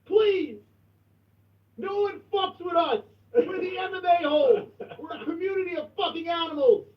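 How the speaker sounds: rally the community in chat; boastful hype. Real, not acted.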